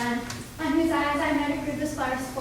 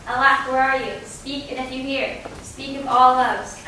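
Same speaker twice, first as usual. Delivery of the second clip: frightened calling out; 4 dB louder than usual. Acted. Hermia calls out for Lysander.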